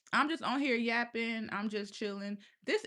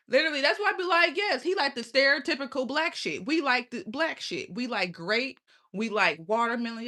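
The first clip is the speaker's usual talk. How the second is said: high, loud, fired-up ranting; animated rant; 4 semitones higher, 4 dB louder than usual. Real, not acted. Streamer ranting to viewers about loving grape and watermelon, excited. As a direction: hype it up, proud and loud.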